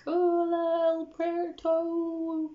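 high, drawn-out halting Spanish; struggling beginner Spanish. Retold or imitated. Tourist asking airport security for directions, mock bad Spanish. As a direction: stretch out each word in clumsy learner's Spanish. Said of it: "my Spanish was not great".

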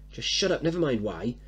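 loud, fast stern order; mother warning her son off; angry warning. Acted. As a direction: lay down the law.

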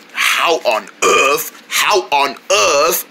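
slow, lightly put-on British accent; a touch of a British accent. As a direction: drag out the words in a mild British accent. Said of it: "Oh, not your French accent again".

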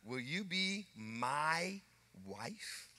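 husband retelling proposal to Lisa; tender proposal. Retold or imitated. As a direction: ask gently. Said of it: "I told Lisa".

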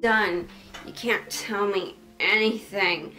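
overtired, giddy and slow; sleep deprived. Real, not acted. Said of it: "raw footage of me whenever I'm sleep deprived".

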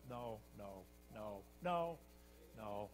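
low, quiet, repeated refusal; God refusing. Acted. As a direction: refuse softly, with pauses between. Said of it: "And God said".

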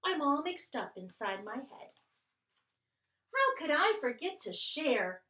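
put-on lively read-aloud for children; storytime reading. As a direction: read it like a picture book to kids. Reading picture book aloud.

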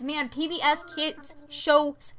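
stretched-out, emphatic slow delivery; oddly slow, savored hype; weirdly drawn-out. Real, not acted. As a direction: draw out the words, landing long on slapped. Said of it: "why I said it like that".

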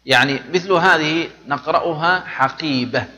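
teacher's pausal ending; final ha sound. Shown as a demonstration. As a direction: say حقيبة with a breathy h at the end. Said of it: "في الأخير صوت هاء".

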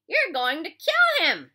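drawn-out, high alarmed yell; loud, urgent cry across a fight; shouted. A narrator's reading. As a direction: shout a desperate warning, slow and loud. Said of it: "shouted Mister Pendanski".

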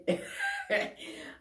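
bursts into a high, helpless giggle; can't hold back a squeaky laugh at the mistake; embarrassed giggle. Real, not acted. Laughing at her own slip.

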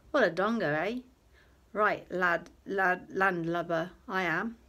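loud jovial self-mocking tone; jovial Fox. A narrator's reading. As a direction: laugh at yourself cheerfully.

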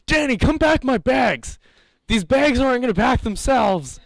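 high-pitched wife yelling for Danny; put-on high voice of a demanding wife; nagging wife. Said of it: "his wife being like".

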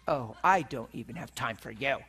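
low, dismissive retort; disgusted nurse. Retold or imitated. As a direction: imitate a disgusted nurse brushing someone off. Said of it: "she was so disgusted".

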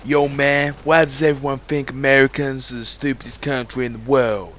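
badly faked American accent; mock American whine of complaint. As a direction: do a poor American gamer impression. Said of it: "That is a really shit accent".

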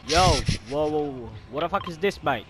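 lightly put-on Aussie accent, bloody and mate; hint of Australian accent; mock Australian accent. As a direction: play an Aussie bloke in a game lobby. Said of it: "I'm bloody Australian".

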